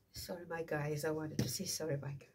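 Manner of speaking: stuffy, blocked-nose voice. Real, not acted. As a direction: talk through a blocked nose. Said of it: "my nose is so blocked right now".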